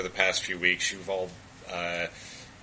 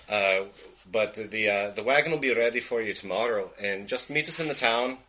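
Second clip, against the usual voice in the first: Scottish cousin giving instructions; Scottish accent. Acted. Cousin tells party to meet in town, Scottish accent. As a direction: keep a Scottish accent while explaining the plan. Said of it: "I lost my accent there".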